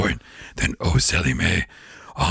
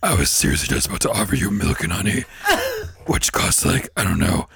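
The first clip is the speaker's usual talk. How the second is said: Satan voice. Retold or imitated. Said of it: "that voice is hard to do".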